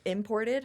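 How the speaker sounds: imported with a lilting rise on the end; quirky imported. Real, not acted. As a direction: say imported with a funny sing-song lift. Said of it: "I don't know why I said it like that".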